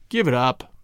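low, resigned and sad; dejected low murmur of surrender; sad repetition. A narrator's reading. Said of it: "he repeated sadly to Lawson".

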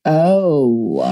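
slowly dawning, mock Swedish voice; mock Swedish accent. Swedish ex realizing why she came, mock accent. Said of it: "that's not even a Swedish accent".

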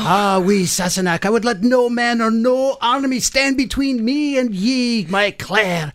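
hammed-up Scottish accent, drawn out. Jamie vows devotion to Claire, hammed-up Scottish accent. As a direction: vow love as a mock Scottish warrior. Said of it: "you lost the accent there".

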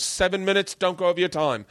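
matter-of-fact mock DJ; club DJ laying down rules. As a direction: lay down the rules in an accent. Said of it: "He's just telling me the rules".

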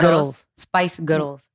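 badly attempted Scottish accent; awful Scottish accent. Shown as a demonstration. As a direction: try a Scottish accent and miss. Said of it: "okay, it's awful".

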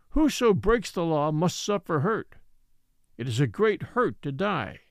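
lightly voiced elder laying down law; old Ebbets, solemn. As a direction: state the law with measured gravity.

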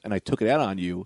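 low, subdued confession; retold apology. Clerk explains his bad day, soft imitated apology. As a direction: explain it softly, voice dropped. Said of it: "I'm so sorry".

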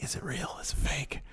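hushed whisper. Pretend. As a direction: whisper it in awe. Imagined ringside wonder.

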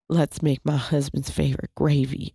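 lightly imitated Southern sultriness; a touch of sultry Southern accent. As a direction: purr it a little like a Southern cook on camera. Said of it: "sultry way of talking to the camera".

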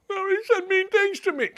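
mock a crybaby athlete whimpering; mock crying athlete. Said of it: "they would cry".

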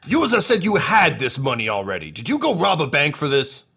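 suspicious of the money story; puzzled Two Two Cups. Acted. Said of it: "he's like".

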